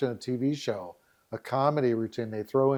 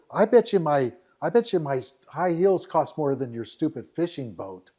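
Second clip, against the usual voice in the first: lightly acted snippy complaint; imitating an indignant date; complaining city girl; 3 semitones higher than usual. City girl griping at the country guy, indignant complaint. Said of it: "She's complaining away".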